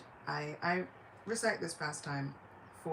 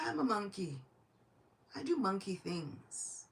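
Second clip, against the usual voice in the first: nonchalant monkey reply; 3 semitones higher than usual. Acted. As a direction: answer the shouting with lazy innocence. Hanuman answers the shouting minister.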